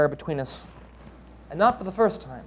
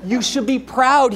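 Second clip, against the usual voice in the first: laughing; 7 semitones higher, 5 dB louder than usual. Acted. Son mocking mother's worry.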